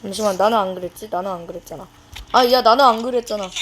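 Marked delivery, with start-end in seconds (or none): 2.3-3.5 louder, indignant insisting; loud protest. Real, not acted. Gamer shouting at players who blame him, indignant. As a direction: shout that it wasn't you.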